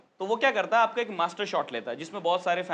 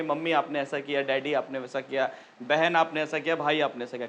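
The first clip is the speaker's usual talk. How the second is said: lower, softer earnest soap dialogue; soap dialogue delivery; 7 semitones lower, 3 dB quieter than usual. Retold or imitated. Actor reciting family dialogue in a soap, mock earnest. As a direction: recite it like a serious TV son. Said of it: "जो dialogue थे".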